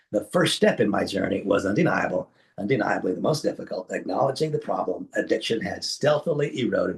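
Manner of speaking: lilting read of a written post; polished promotional read-aloud. Real, not acted. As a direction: read the prepared text out with lifted phrases.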